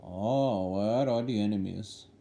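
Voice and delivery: put-on Indian accent. Gamer describing his loadout to viewers, in a mock Indian accent. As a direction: narrate the match in a hammed-up Indian accent. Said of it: "in an Indian accent".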